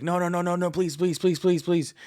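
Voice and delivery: high, pleading, whiny imitation; high mock pleading please; mock old man begging. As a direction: beg not to be chopped. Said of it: "Rick's like".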